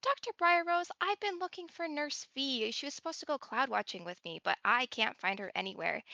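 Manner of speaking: patient asking the doctor where Nurse V went, a lightly voiced plea; in-character small talk. Shown as a demonstration. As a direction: ask after a missing friend, in character. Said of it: "the very basic things of going like".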